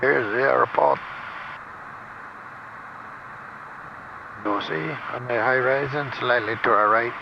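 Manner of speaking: playful put-on French accent; joking tour guide with French accent. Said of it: "uh, my French accent?".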